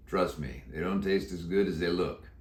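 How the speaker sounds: put-on a croaky old Western cowboy; deep croaky voice. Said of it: "He answered in a deep, croaky voice".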